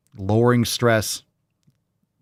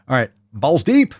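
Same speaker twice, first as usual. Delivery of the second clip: hyped announcement; 9 semitones higher, 4 dB louder than usual. Acted. Hyped segment intro.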